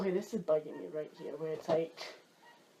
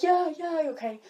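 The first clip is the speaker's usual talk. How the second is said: higher, louder impatient call; calling back; 7 semitones higher, 4 dB louder than usual. Retold or imitated. Teen answering parent's call again, impatient loud call. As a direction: yell your yeah yeah across the house.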